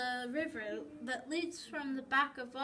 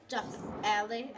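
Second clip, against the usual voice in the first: impatient; 4 dB louder than usual. Acted. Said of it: "I say, getting impatient".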